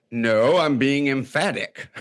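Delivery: slow, laughing insistence; husband defending his volume to his wife, mock emphatic. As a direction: insist it's only emphasis, half laughing. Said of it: "he's yelling at me".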